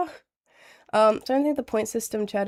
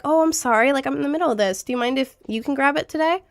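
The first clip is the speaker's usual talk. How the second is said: polite request; 3 semitones higher, faster than usual. Shown as a demonstration. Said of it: "Or like".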